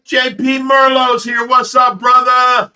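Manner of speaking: high, loud greeting to a friend; excited shout. Real, not acted. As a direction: call out his arrival with delight. Greeting a friend joining the stream.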